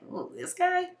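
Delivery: high, sneering mock voice; mocking relative. Relatives judging the boyfriend, high sneering mock. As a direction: sneer like a snooty aunt.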